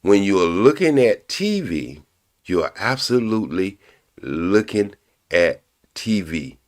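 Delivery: slow, deliberate repeat; slowing down on looking at T V; said real slow. Shown as a demonstration. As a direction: spell it out slowly for the chat. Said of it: "I'm gonna say it real slow".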